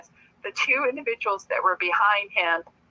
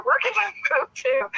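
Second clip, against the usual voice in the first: laughing; 12 semitones higher than usual. Retold or imitated. Retelling her reply, laughing.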